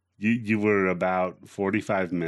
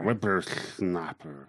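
put-on slurred, slow old-timer voice; old prospector; 3 semitones lower, 4 dB quieter, slower than usual. Shown as a demonstration. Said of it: "That have a slur when you say that".

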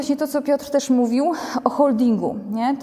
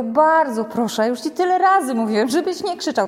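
mock polite policeman. Policeman gently scolding a shouting adult, mock patient. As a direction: play the policeman, drawing out each word. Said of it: "Powiedział".

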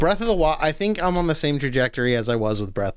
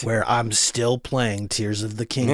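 movie trailer voice; 3 semitones lower than usual. Pretend. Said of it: "Trailer guy voice".

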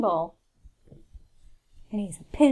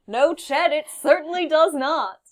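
mock sports announcer; 4 semitones higher than usual. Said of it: "Did we determine Chet as a sports announcer name?".

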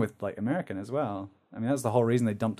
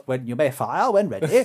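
lightly voiced British villain, rising on the last words; a hint of imperious British villain; 3 dB louder than usual. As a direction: give the order like a British film villain. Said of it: "They always have Britain villain".

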